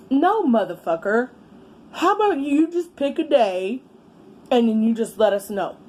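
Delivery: mock him with a sarcastic reply; sarcastic retort. To the baby daddy, high sarcastic snap. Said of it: "I said".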